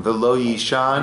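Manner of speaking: measured, phrase-by-phrase psalm leading; slow prayer recitation. Real, not acted. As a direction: recite slowly for others to repeat. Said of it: "I'll say it slowly".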